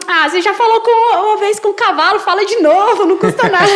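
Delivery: high and loud, laughing through the words; half-joking dare, giggling as she asks; laughing joke to God. Retold or imitated.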